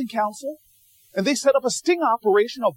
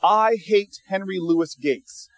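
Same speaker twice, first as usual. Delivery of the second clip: sarcastic; 4 semitones lower, slower than usual. Shown as a demonstration. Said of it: "I say that sarcastically".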